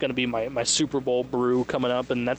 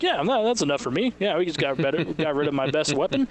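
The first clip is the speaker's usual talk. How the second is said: mock sarcastic Deshaun; 2 semitones higher than usual. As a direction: play Deshaun as falsely satisfied. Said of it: "enough for him to be like".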